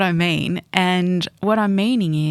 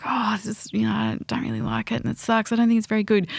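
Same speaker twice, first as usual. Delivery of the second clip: higher, half-joking moan about the book; mock whining complaint; 4 semitones higher than usual.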